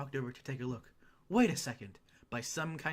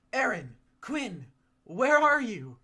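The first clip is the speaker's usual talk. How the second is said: loud, high calling out across the woods; yelling at the top of lungs; 8 semitones higher, 11 dB louder, slower than usual. A narrator's reading. Cat in disguise calling for the missing pair, loud high yell. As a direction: shout for them as loud as you can. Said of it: "I yelled at the top of my lungs".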